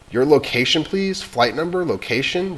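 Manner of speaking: rapid-fire radio questions; operator questions. Acted. Operator asking the boy for flight number, urgent.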